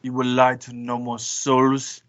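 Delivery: ordinary talk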